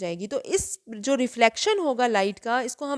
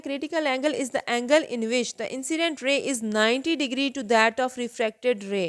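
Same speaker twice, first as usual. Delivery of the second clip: very slow, word by word, for students to write; slow dictation; much slower than usual. Shown as a demonstration. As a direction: dictate each word carefully to the class. Teacher dictates definition slowly. (धीरे-धीरे लिखवाना)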